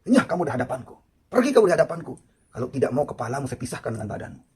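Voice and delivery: stern storyteller's imitation of a furious dismissal; angry Umar. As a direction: order him out in retold anger. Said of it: "Wajar Sayyidina Umar tuh marah".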